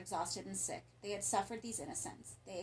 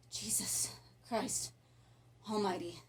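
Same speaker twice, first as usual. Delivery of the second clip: breathless, slow whispered oath; awed whisper; slower than usual. Acted. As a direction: breathe it out in shock. Stunned oath after the bloody scene.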